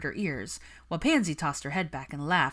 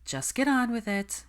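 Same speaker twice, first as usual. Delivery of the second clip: higher, weary resignation; sighing; 7 semitones higher than usual. A narrator's reading. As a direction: give in with a tired sigh. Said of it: "Hermione sighed".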